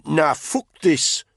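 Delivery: fed-up soldier quitting in contempt; Tony, disgusted. A narrator's reading. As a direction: spit it out in disgust.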